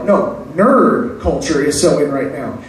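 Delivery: flat sarcastic retort. Shown as a demonstration.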